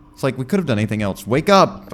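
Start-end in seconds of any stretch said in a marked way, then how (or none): 1.3-1.9 high, loud, slow preacher rant; conspiracy guy voice. Pretend. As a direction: shout it like a doomsday prophet. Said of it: "the sheeple thing".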